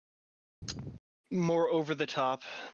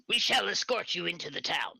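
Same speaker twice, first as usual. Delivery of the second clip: lightly higher formal creature voice; newt warrior voice; 4 semitones higher than usual. Acted. Newt warrior to the party, lightly higher formal voice. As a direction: state it with stiff formality. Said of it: "strider and states".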